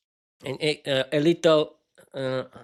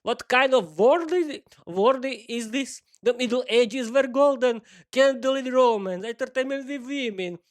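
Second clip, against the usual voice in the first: wistful husband; 6 semitones higher than usual. Acted. Husband reminiscing Middle Ages.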